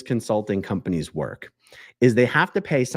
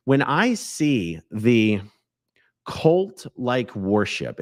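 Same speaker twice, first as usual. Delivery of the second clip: slow, breathy whisper; much slower than usual. Acted. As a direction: draw it out in a hushed whisper. Dramatic lead-in about cult worship.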